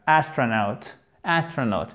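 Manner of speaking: ASTRONAUT stressed on AS, short A; stress on first syllable. Shown as a demonstration. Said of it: "la première syllabe". (« astronaut » accentué sur la première syllabe)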